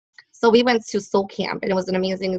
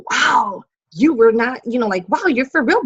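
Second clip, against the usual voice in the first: imitated amazement; 3 semitones higher than usual. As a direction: act out a friend's astonished realization. Acts out girlfriend's amazement.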